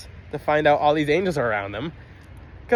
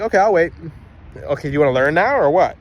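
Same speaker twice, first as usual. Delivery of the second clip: a touch louder, lightly voiced teacher; waiting teacher; 4 dB louder than usual. Teacher waiting for a yelling student to stop, lightly imitated. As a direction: make a waiting teacher's point, with some force. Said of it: "a teacher who".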